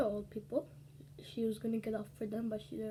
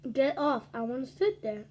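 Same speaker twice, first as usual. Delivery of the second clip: demanding; 5 dB louder than usual. Retold or imitated. Bossy lady on the bus.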